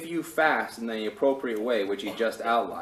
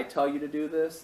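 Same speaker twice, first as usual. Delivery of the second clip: higher-pitched, mock-exasperated question; mildly mad; 6 semitones higher than usual. God answering complaints about fasting, mildly mad. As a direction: imitate a put-out God questioning them. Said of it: "he's kinda mad".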